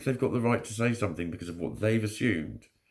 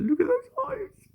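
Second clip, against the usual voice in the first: cooing at cat; 3 dB louder, slower than usual. Real, not acted.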